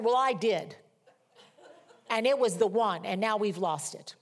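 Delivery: mildly indignant retort, easing off at the end; re-enacted anger. Mother answering her daughter about the lost office, mild re-enacted anger. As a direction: replay a cross comeback with a touch of anger. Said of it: "I was so angry".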